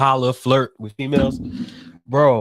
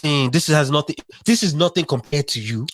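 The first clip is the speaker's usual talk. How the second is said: put-on dismissive African-accented suitor; lightly put-on African accent. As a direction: brush it off in a mock African accent.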